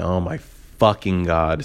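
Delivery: slow, fed-up groan of words; exasperated drawl. Retold or imitated. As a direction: drag it out in disbelief. Exasperated at drunk girl.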